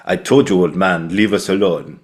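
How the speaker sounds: hammed-up student actor delivery; exaggerated acting. Acting student gives his first line to Oliver Reed, very exaggerated. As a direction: overdo the line like an eager drama student. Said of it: "very exaggerated way".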